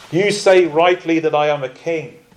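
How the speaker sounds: firm, emphatic affirmation; emphatic yes. Retold or imitated. Jesus answering Pilate's question, emphatic. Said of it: "an emphatic yes".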